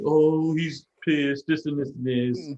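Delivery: lightly acted sob story; mock crying. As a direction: imitate a tearful complaint, drawing out the words. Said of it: "just sitting in the corner crying".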